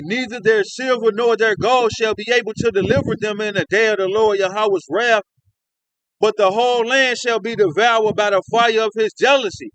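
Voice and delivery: solemn, measured Bible reading; scripture reading. Acted. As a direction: read it out like holy writ. Preacher reads scripture aloud.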